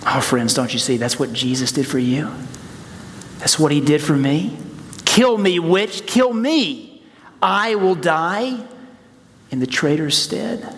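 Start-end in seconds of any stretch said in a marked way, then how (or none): 5.0-10.7 impassioned cry. Acted. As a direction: cry it out with fervor. Repeats Aslan's words with fervor.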